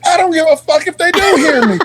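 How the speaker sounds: high, heated retort; retold defiant outburst. Sergeant replaying his comeback about soldiers overhearing, defiant.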